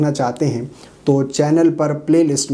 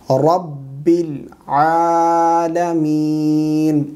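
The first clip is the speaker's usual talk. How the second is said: very slow Quranic recitation with long-held vowels; correct recitation; much slower than usual. Shown as a demonstration. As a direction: recite it syllable by syllable, drawing out every long vowel. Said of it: "صحیح تلفظات کے ساتھ پڑھ کر سکھائیں گے".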